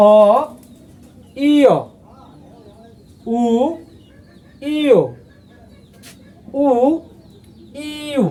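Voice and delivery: ten Korean vowels read slowly, one by one; vowel drill. Shown as a demonstration. Teacher rereads ten Korean vowels for practice. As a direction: drill each vowel, pausing between them. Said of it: "আবারও পড়িয়ে দিচ্ছি".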